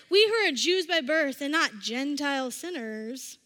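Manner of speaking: mildly mocking quote; lightly acted sarcastic superiority. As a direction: say it with a touch of sarcasm, as if you don't believe it. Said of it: "Paul's being sarcastic. Um, he's like".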